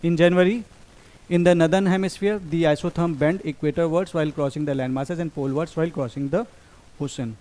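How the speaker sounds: slow, careful reading of an exam statement; slow reading aloud. Shown as a demonstration. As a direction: read each word out slowly for the class. (धीमे-धीमे पढ़कर सुनाना)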